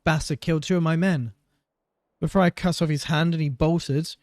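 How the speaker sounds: high, loud teasing greeting; mocking captain. Pirate captain mocking the guard, high teasing voice. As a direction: tease him sweetly.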